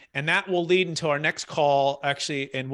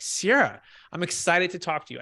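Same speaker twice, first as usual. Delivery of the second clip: with conviction; 3 semitones higher than usual. Shown as a demonstration. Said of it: "I say it with conviction".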